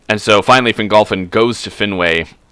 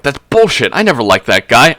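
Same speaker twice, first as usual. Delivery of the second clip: louder, higher mock outrage at the news; indignant outburst; 7 semitones higher, 6 dB louder than usual. Feanor hearing Fingolfin wants his place, indignant outburst. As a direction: spit it out like a betrayed hothead. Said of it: "Feanor's like".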